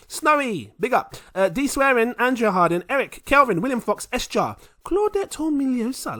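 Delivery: high, loud hype announcer reading names; shout-out roll call. Real, not acted. Host thanking patrons on a long list, hyped roll call. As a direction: belt out each name like a roll call.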